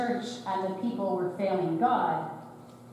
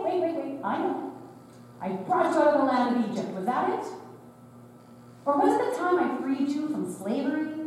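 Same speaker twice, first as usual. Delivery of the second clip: sarcastic God; 3 semitones higher than usual. Acted. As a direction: needle them with exaggerated hurt innocence. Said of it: "uncharacteristically sarcastic manner".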